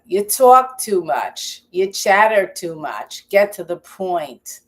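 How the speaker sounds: put-on a scolding heckler in a New York accent; mock New York accent. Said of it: "with a New York accent".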